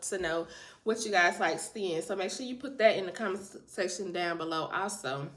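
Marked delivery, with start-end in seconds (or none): 2.0-5.3 rushed, tripping on "comment s-"; stumbling over words. Real, not acted. Vlogger asking viewers for comments, stumbling over the words. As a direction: trip over the word, then carry on. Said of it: "I was stuttering".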